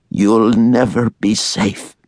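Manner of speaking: slow, heavy stress on never; a resigned warning, drawn out slowly; weary mother crushing hope; bleak mother. A narrator's reading.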